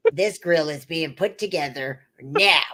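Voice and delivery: mock-stern husband, pitched well down; husband's stern order.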